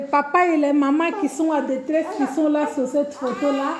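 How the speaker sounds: half-laugh, half-sob, words breaking; laughing through tears. Real, not acted. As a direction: voice catching between laugh and tears. Rit et pleure en parlant. (entre rire et larmes, la voix qui se brise)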